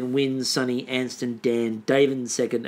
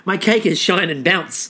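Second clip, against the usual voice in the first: mock shampoo ad voiceover; 4 semitones higher, 5 dB louder than usual. Spoofing a badly dubbed ad voiceover for cake. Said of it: "a really badly dubbed, um, voiceover".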